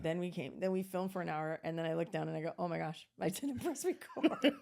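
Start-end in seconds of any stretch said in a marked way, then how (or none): 2.6-4.5 high, slow, breaking into laughter; laughing dismay. Retold or imitated. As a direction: retell the blunder while cracking up. Retells finding recording was off.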